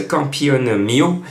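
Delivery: slow, hammed-up Italian accent; thick Italian accent. Shown as a demonstration. Tipster announcing a horse's name, hammed-up Italian accent. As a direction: lay on the Italian accent, drawn out. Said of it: "avec mon accent italien qui est à couper au couteau".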